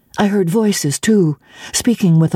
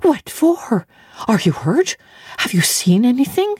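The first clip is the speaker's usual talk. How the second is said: demanding; 6 semitones higher than usual. A narrator's reading. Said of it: "demanded Bessie".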